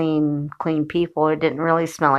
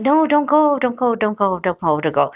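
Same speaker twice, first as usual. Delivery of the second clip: mock pleading; 3 semitones higher than usual. Couple begging the narrator not to go, mock pleading. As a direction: beg in a repetitive, falling run.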